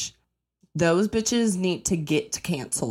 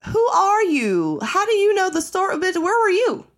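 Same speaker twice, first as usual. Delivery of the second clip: high and loud, still demanding; loud scolding of the stranger; indignant shout; 13 semitones higher, 5 dB louder than usual. Pretend. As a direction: keep hammering the stranger. Confronting the rude stranger.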